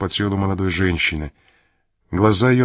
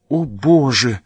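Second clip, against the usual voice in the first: громкое восклицание в отчаянии; воскликнуть «О, Боже!» с мольбой; возглас; 4 semitones higher, 4 dB louder, slower than usual. A narrator's reading. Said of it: "воскликнула она". (громко и с отчаянием)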